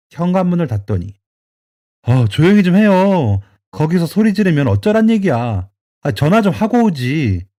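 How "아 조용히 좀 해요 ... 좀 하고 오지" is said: annoyed hushing scold. Acted. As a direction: hush her down, fed up. Son hushing his shouting mother.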